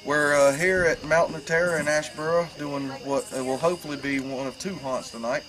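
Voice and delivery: hoarse from being sick; a raspy, under-the-weather voice. Real, not acted. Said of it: "forgive my voice, under the weather".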